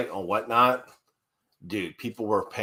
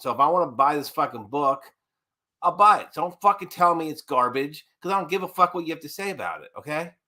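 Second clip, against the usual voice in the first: raised-pitch, indignant tirade; annoyed rant; 5 semitones higher than usual. Real, not acted. Co-host telling off rival comic channels, indignant. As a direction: tell the critics off, pitch up. Ranting back at critical channels.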